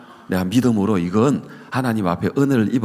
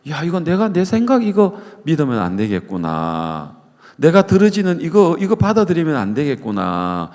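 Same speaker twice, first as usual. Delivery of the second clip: dawning realization; 5 semitones higher than usual. Retold or imitated. Missionary wife realizing.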